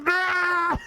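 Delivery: high shrieking yelp; mock beast shriek; animal shriek. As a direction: screech as it pushes through. Animal pushing at gate.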